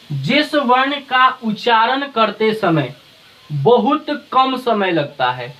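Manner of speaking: slow, deliberate definition for students; slow dictation. Shown as a demonstration. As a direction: spell it out slowly so they can write. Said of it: "teacher dictating definition slowly". (धीरे धीरे लिखवाना)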